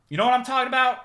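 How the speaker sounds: high, loud teasing question; playful high voice. Acted. Streamer teasing male viewers, high playful voice. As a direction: squeak it up to tease the fellas.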